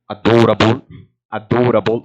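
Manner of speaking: "adorable" with a long Scottish vowel and tapped r; Scottish pronunciation. Retold or imitated. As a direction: imitate a Scottish comedian's "adorable". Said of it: "this comedian pronounced".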